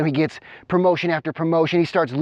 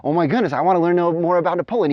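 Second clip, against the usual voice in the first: excited; 4 semitones higher, faster than usual. Acted. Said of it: "he gets all excited".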